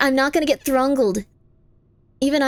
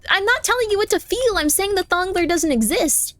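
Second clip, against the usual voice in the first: raised-pitch exasperated protest; exasperated insistence; 6 semitones higher than usual. Real, not acted. Streamer arguing with a chatter about the Throngler, exasperated and high. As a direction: push back, fed up.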